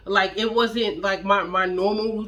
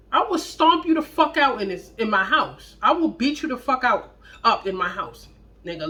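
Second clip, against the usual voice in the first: furious threat. Retold or imitated. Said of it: "that's how mad I was".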